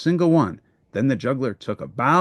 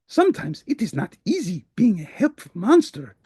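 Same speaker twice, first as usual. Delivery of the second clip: sighing; 6 semitones higher than usual. Acted. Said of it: "said with a sigh".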